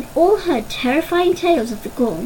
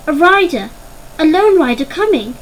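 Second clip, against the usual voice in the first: raised, urgent call across the hall; calling out alarm; 4 semitones higher, 4 dB louder than usual. Acted. A lookout warning the hall, urgent raised call. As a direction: shout the warning to the warren.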